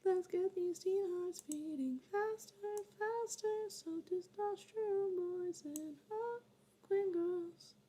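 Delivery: high, slow, breathy hype voice; dramatic announcer. Pretend. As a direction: sell it like a movie trailer. Dramatic reading of notes.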